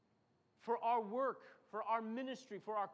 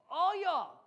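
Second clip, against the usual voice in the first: loud threat; 7 semitones higher, 9 dB louder than usual. Acted. David shouting at the Philistines. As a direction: punch it out loud and high.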